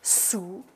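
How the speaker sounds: "Souris" softly, split into "sou" ... "ri"; soft, slow "Souris" with a gap between syllables; découpé en syllabes. Shown as a demonstration. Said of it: "il s'agissait de la première syllabe". (« souris » doucement, en deux syllabes séparées)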